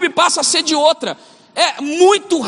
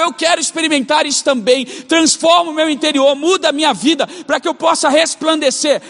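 earnest pleading prayer, slightly raised; fervent prayer. Retold or imitated. Pastor retelling his daily prayer, fervent pleading. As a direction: pray it as a daily plea to God. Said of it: "Então todos os dias eu oro".

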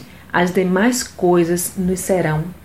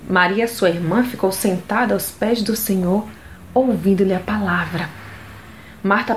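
raised, measured Bible reading voice; scripture reading; 3 semitones higher than usual. Acted. Devotional host reading Luke to women, measured scripture reading. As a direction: read the Gospel like a devotional lesson. Reads Gospel passage aloud.

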